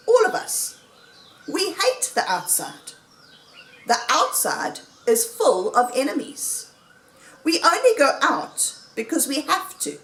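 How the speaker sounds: lively oratory with high swoops in pitch; rousing speech. A narrator's reading. Mister Fox persuading the diggers to stay underground, speechifying. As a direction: win the room over point by point.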